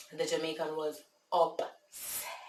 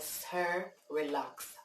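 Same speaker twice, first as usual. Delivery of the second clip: put-on Jamaican accent; 3 dB quieter, much slower than usual. Caller imagining her reply to the upset man, Jamaican accent. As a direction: settle him down in a Jamaican accent. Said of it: "gone in my Jamaican accent".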